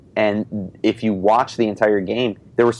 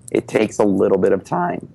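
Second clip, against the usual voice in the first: voice cracking. Real, not acted. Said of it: "Sorry for the voice crack".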